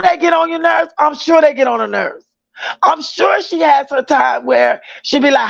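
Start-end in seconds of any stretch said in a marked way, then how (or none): none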